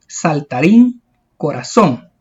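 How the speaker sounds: saltarín, corazón, each leaning on the last syllable; teacher's examples saltarín and corazón, final syllables stressed. Shown as a demonstration. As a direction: land hard on -rín in saltarín and -zón in corazón. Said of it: "tienen la sílaba tónica al final".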